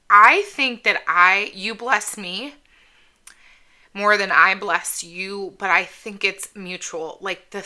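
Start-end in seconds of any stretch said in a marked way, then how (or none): 0.1-5.5 choked up. Real, not acted. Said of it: "hard not to get emotional".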